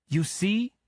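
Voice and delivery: high, loud cry of i-told-you-so. A narrator's reading. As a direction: call out sharply, high and loud. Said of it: "Missus Yasant cried".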